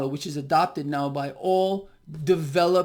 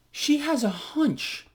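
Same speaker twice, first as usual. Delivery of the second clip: mocking; 7 semitones higher, slower than usual. Mocking tone on hunch.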